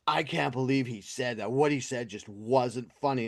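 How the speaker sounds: lightly put-on offended complainer; mock pearl-clutching. Podcaster mimicking the woman upset by a roast, mock pearl-clutching. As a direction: imitate someone mildly scandalized. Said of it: "fucking pearl clutchy about it".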